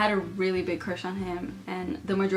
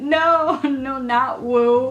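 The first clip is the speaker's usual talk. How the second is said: laughing protest; 5 semitones higher, 7 dB louder, much slower than usual. Retold or imitated.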